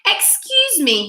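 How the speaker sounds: timid polite wolf. A narrator's reading. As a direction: begin very politely. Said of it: "he began".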